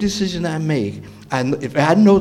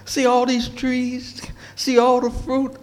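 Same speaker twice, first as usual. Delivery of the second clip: unthreatening showing; 8 semitones higher than usual. Retold or imitated. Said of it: "God has no reason to threaten Adam".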